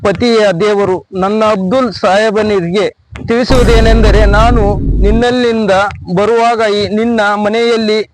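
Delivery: halting, formal read-out with long pauses; reading letter aloud. Acted. Husband reads his wife's farewell notice to a woman, halting formal read-out. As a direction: read it out phrase by phrase, stiffly. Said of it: "ಓದಿ ಹೇಳ್ತೀನಿ ಕೇಳಮ್ಮ".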